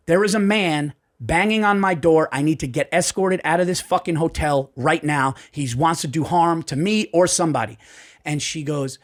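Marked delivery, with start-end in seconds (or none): 0.1-7.8 urgent plea. Retold or imitated. Panicked call to front desk.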